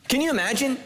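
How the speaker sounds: laughing. Real, not acted. Laughing aside to congregation.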